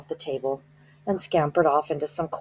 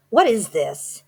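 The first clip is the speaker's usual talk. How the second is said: put-on higher, louder puzzled boy; boy's puzzled voice; 6 semitones higher, 7 dB louder, slower than usual. A narrator's reading. Bruno puzzled on stage before the witches, asking higher and louder. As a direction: ask it as a bewildered boy. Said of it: "he said".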